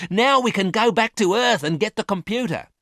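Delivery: overjoyed plan to go home; excited. A narrator's reading. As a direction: keep the thrill going. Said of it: "she cried excitedly".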